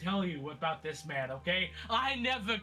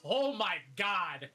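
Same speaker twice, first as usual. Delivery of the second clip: exasperated rant. Acted. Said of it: "He's like, slumps into the chair".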